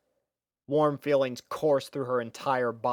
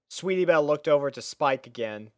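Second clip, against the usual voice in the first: ordinary delivery, nothing marked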